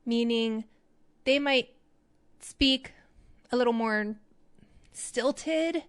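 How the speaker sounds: halting, word by word with pauses; deliberately broken, stilted delivery; stilted rate. Shown as a demonstration. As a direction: speak in stilted little chunks, stopping between them. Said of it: "would have a different rate".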